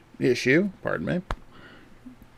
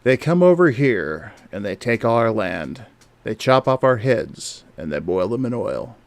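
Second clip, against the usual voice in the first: smooth and smarmy. Acted. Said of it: "I can do it in a smooth and smarmy voice".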